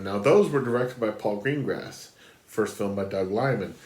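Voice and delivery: blocked nose, nasal; stuffy nose. Real, not acted. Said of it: "Apologies that I'm sounding stuffy and nasally".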